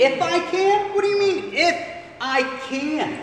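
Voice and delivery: high, loud offended retort; Jesus indignant at the father's doubt; indignant disbelief. Acted. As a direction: throw his words back at him. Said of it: "Jesus does not like that statement".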